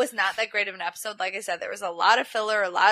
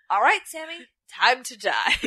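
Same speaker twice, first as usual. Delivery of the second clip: cavalier threat. Retold or imitated. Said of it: "cavalier and casual".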